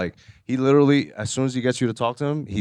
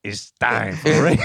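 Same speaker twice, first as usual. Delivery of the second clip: slow, shouted show catchphrase; 3 semitones lower, slower than usual. Pretend. Pedro announcing his prank show, slow shouted catchphrase. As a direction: bellow it like a wrestling host. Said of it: "I gotta have a catchphrase".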